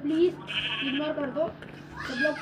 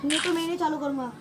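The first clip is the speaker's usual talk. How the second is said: annoyed protest; 3 dB louder than usual. Real, not acted. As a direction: protest at being shoved. Quarrel over being pushed.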